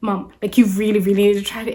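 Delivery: imitated kid's quick, insistent plea; pleading daughter. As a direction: press mom urgently, as the child would. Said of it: "she kept on convincing me".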